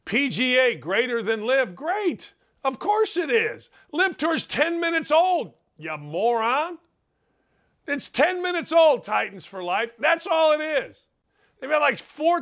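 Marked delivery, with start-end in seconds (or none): 1.7-3.7 high, dripping sarcasm; mock the comment with fake praise; sarcastic. Real, not acted. Answering a chat comment, high sarcastic scorn. 3.9-9.1 indignant. Real, not acted. Host scolding a chat commenter, high indignant retort.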